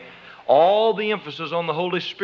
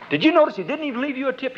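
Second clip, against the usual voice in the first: quick, higher needling whisper-voice; sly inner voice; 5 semitones higher, faster than usual. Retold or imitated. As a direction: egg her on slyly. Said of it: "that real little quiet voice".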